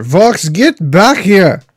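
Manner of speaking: drawn-out call to someone; mock holler, stretched out; mild holler. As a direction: call out slowly, half hollering. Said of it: "I holler".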